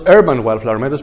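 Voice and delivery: urban punched at the front of the phrase; stress on urban. Real, not acted. Lecturer correcting himself to urban meadows, stress on urban. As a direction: lean hard on the word urban. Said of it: "I'm emphasizing on the word urban".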